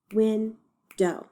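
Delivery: WINDOW split in two, win, then dow; broken into syllables. Shown as a demonstration. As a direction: count out WINDOW with a gap between syllables. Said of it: "decide how many syllables it has".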